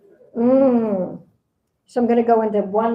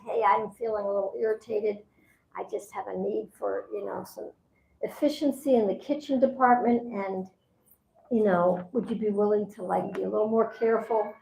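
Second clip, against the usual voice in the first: soft, calm request; a softer, even-tempered ask; nice way; 6 dB quieter than usual. Retold or imitated. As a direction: ask gently, no blame in it. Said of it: "say it in a nice way".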